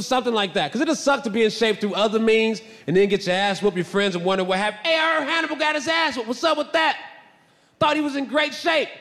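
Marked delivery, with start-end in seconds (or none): 4.9-8.9 higher, nosy friend voice; mock the rumor mill; lightly voiced gossip.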